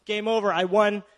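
loud, smug mock husband gloating; hammed-up smug victory. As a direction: gloat like a lazy new husband. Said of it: "he shuts the door and says".

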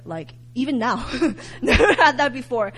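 "never had that before" said through a laugh. Real, not acted. Telling listeners about the vision, laughing. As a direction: chuckle through it. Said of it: "And I've never had that before".

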